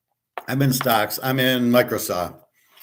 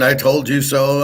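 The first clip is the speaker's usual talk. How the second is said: mock the know-it-all gloating "I told you so"; smug mock told-you-so; 3 semitones higher than usual. Mocking YouTubers who gloat about the warning. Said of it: "these idiots".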